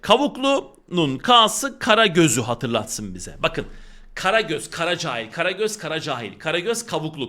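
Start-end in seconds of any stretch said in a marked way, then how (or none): 0.0-3.4 "K'sı" stressed slowly as a memory hook; teacher stressing "K'sı" for students; slow emphasis. Shown as a demonstration. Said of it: "bakın K'lar baya baya iş görecek".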